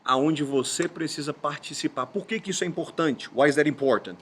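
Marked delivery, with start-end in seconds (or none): 3.3-4.2 Miles. Retold or imitated. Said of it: "Lembrei do Miles".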